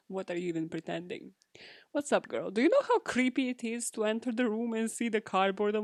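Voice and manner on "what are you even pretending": whispered aside to herself. Real, not acted. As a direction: hush it, teasing yourself. Self-mocking aside.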